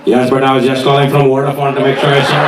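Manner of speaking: lightly voiced meek caller; call centre caller. Call centre worker answers the threatening father, lightly put-on innocent voice.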